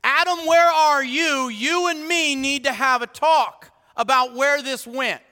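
high, loud calling out; stern summons. Acted. God summoning Adam for a talk, loud stern call. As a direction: call him out like a father in charge.

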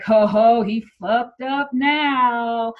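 very slow, drawn-out mock gloat; stretched-out, gleeful oh-you're-in-trouble voice; imitated amused gloating. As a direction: act out a kid relishing someone else's trouble. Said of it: "Alex is laughing about it".

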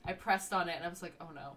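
talking through hiccups. Real, not acted. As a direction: speak while hiccuping. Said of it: "And I have the hiccups now".

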